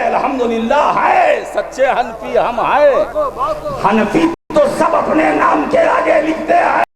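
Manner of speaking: high-pitched sermon oratory; impassioned, high-pitched pulpit delivery; full-force preaching. Acted. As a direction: ring out each rhetorical line to the crowd.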